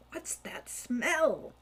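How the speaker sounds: slow, unvoiced whisper. A narrator's reading. Hawk to his brother in the dark cave, whisper. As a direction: breathe it out in the dark. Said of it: "he whispered to Falcon".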